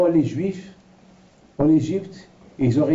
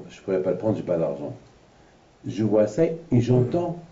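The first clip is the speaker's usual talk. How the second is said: ordinary delivery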